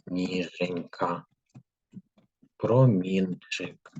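slow, drawn out, each syllable clear; slow dictation. Shown as a demonstration. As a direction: dictate slowly for pupils to write. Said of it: "І записуємо слова". (повільний диктант по складах)

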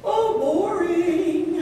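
slow, drawn-out groan of boredom. Acted. Bear waiting at the ice hole, bored. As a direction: stretch it out, bored stiff.

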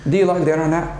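"you" softened to "ya" in do you like the internet; unstressed you said as ya; reduced you as ya. Shown as a demonstration. Teacher modelling relaxed speech, you as ya. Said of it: "you, if not stressed, is pronounced yo".

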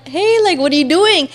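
casual caller, lifted pitch; lightly acted phone greeting. Retold phone call to boyfriend.

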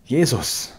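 hoch und laut aufschreiend; erschrockener Ruf. A narrator's reading. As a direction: vor Schreck aufrufen. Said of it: "rief sie". (die Bedienerin schreit erschrocken auf)

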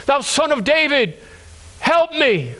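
high-pitched preacher's cry for help; imploring cry of a blind man. Acted. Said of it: "And he cries out".

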